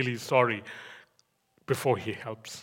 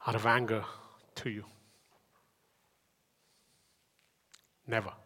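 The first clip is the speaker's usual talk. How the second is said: tender voice of God; 2 semitones lower than usual. Acted. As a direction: speak gently as a loving God to Jacob.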